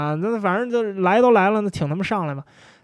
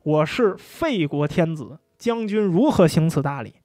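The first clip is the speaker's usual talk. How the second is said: weary sigh. Retold or imitated. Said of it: "叹了一口气".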